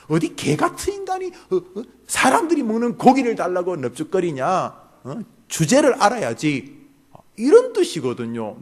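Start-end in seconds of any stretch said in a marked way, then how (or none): 0.1-6.8 scornful rebuke. Pretend. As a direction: talk down to her like to a beggar. Voicing Jesus's insult, rising scorn.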